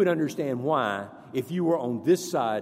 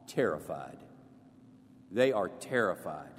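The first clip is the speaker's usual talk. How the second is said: hushed dramatic drop; 8 semitones lower, 7 dB quieter than usual. Real, not acted. Dramatic low drop on terrified.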